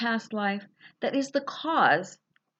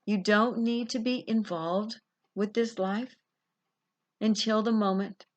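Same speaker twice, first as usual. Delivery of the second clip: guided visualization. Acted. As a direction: lead them gently down the corridor.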